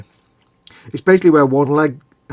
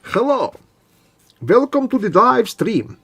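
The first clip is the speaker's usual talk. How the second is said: host greeting; 10 semitones higher, 4 dB louder than usual. Acted. Greeting stream viewers.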